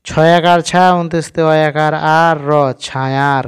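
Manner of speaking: ছায়ার built up letter by letter, then blended; spelling it out. Shown as a demonstration. Teacher spells out ছায়ার for learners, letter by letter. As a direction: spell each letter with its vowel sign, then join them into ছায়ার. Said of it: "তাহলে এটা কেমন করে পড়ব?".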